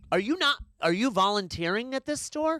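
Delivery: sarcastic jab at a lazy clerk; sarcastic retort. Retold or imitated. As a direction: needle them with fake politeness. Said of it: "I'm like".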